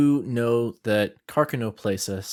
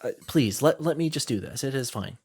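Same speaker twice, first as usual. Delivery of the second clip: higher-pitched, fussing politely in protest; flustered villager; 6 semitones higher than usual. Acted. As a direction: wave away a kindness, voice lifted and flustered.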